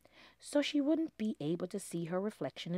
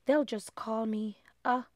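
anxious prayer; 7 dB louder than usual. Acted. Lindy prays anxiously.

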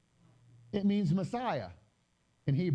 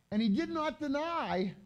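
"did" lifted high in "And he did not deny"; stress on did; 9 semitones higher than usual. Shown as a demonstration. Teacher rereads the verse, stressing "did" for the class. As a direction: hit the word "did" with a raised pitch. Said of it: "Now watch his response here".

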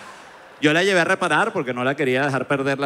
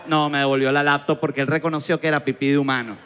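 normal talking voice

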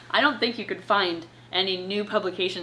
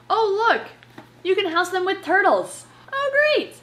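sarcastic high-pitched delight, louder; mock excitement; 10 semitones higher, 4 dB louder than usual. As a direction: fake thrilled squeal at the page.

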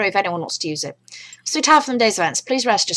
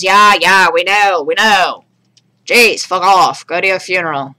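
annoyed; 7 dB louder, slower than usual. Pretend. Annoyed at old man's warnings.

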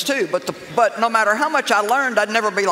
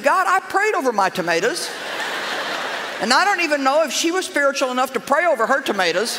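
mock indignant; 5 semitones higher, faster than usual. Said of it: "Well, I got mad".

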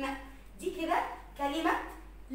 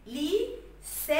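لي سا split in two, the سا held long; stretched long vowel; 3 semitones higher, much slower than usual. Shown as a demonstration. Teacher showing the alif of madd, stretching سا. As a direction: slowly draw out the aa of سا. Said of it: "لما نمد كده في الصوت".

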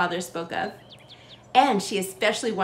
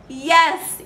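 happy; 6 semitones higher, 6 dB louder than usual. A narrator's reading. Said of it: "Eva said happily".

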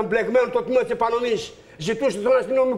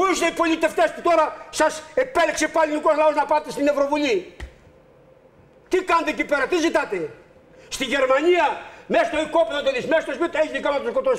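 emphatic, impassioned protest; pained anger. Real, not acted. Aggrieved man berates politicians on air, pained and angry. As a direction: demand answers in outrage. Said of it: "τον πόνο σας αυτή τη στιγμή και την οργή".

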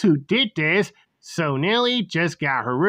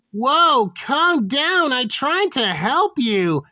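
startled, higher-pitched protest; a touch of alarm, pitched up; panicked; 5 semitones higher, slower than usual. Acted. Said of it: "Green was panicked and scared".

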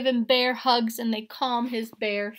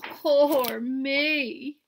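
a high, loud little wail; 4 semitones higher, 5 dB louder than usual. A narrator's reading. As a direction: wail it like a lost bear. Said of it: "he wails".

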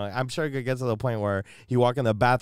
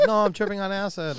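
mock defensive answer; 10 semitones higher, 3 dB louder than usual. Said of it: "I was like".

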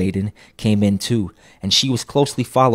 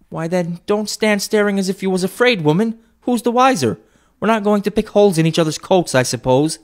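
high, loud scolding; brazen woman; 11 semitones higher, 5 dB louder than usual. A narrator's reading. First woman chiding Mrs Dilber, high and loud. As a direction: chide her for staring.

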